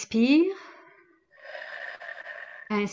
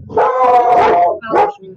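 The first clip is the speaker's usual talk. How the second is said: loud, helpless laughter on the word; laughing apology; 2 semitones higher, 10 dB louder, much slower than usual. Real, not acted. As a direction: apologise through a burst of laughter. Fit of laughter during interruption. (pardon en éclatant de rire)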